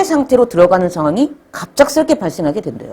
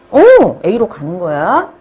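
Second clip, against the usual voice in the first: usual speaking voice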